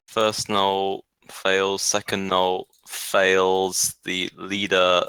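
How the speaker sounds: slow, measured roll results; drawn-out reveal. Real, not acted. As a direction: announce each result slowly, stretching it out. Game master slowly revealing saving throws.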